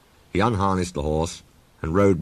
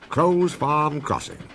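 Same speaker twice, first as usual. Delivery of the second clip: slow, higher happy chuntering; happy engine voice; 9 semitones higher, slower than usual. A narrator's reading. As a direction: chunt it out happily. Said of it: "he chunted happily".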